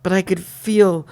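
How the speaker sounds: lightly dramatized diary narration; diary reading. A narrator's reading. Reading the diary to a co-host, lightly dramatized storytelling. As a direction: read it out like a steamy romance story.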